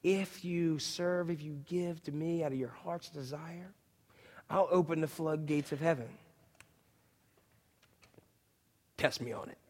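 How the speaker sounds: lightly voiced God challenge. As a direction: quietly dare them. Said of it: "God says".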